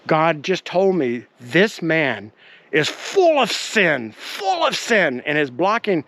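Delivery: slow, emphatic preacher's denunciation; retold fury. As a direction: imitate an angry healer condemning someone before his group. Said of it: "he was furious at me".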